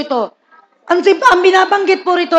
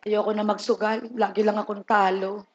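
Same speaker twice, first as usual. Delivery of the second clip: a soft, low mumble of a losing gambler; lightly voiced gambler swearing off betting, softer and lower; mock regretful gambler; 7 semitones lower, 11 dB quieter than usual. Gambler's quiet resolve voiced.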